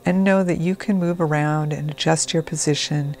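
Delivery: calm, measured trance-induction delivery; guided meditation. Acted. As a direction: gently settle the listener in, with unhurried pauses. Begins leading a guided meditation.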